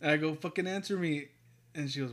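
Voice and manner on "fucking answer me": higher-pitched retold demand; exasperated demand. Repeating his dinner-quarrel line for cohost, mild exasperation. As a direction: re-enact pressing a partner for an answer.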